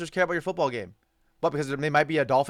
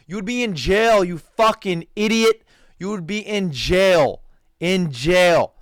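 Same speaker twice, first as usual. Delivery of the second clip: louder, slow scolding; angry rant; 6 dB louder, slower than usual. Real, not acted. Vlogger scolding the athlete he despises, louder and slow. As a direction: drive each word home in disgust.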